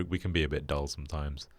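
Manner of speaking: flat, monotone delivery. Real, not acted. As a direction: say it in a dead-level monotone.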